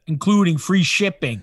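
put-on ad read in a Chicago accent. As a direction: finish the promo in a Chicago accent. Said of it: "A Chicago accent?".

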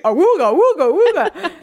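high, loud cartoon horn hoots; cartoon wolf-call. Mocking the smitten boy on her arm, cartoon wolf-call. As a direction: whoop it like a smitten cartoon character.

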